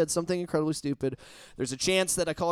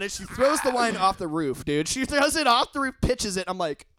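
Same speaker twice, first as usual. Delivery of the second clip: normal talking voice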